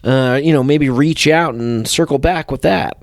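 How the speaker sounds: mock chummy business patter, quick in places; corny networker. Reading out a corny LinkedIn message, mock networker voice. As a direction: lightly imitate a LinkedIn networker. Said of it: "this is the voice that I s-, think they sound like".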